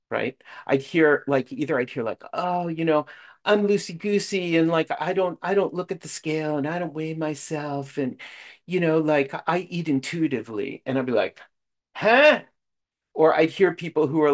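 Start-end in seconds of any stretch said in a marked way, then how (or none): 2.3-10.8 lightly voiced loosey-goosey type, higher pitch; a hint of breezy self-satisfied chatter; mock easygoing member. Mimics easygoing members in meetings. 12.0-12.4 loud, high-pitched mock "huh?"; exaggerated bewilderment, pitch shooting up; baffled. His baffled reaction, retold.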